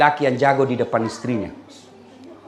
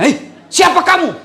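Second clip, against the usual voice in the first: high, loud, slow startled question; startled cry; 12 semitones higher, 5 dB louder than usual. Retold or imitated. Husband startled by tall jinn from the well, shocked. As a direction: jump back in fright.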